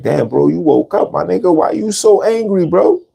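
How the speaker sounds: retold baffled challenge to a friend; mock disbelief. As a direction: pitch climbing into an incredulous question. Acts out asking angry strangers why.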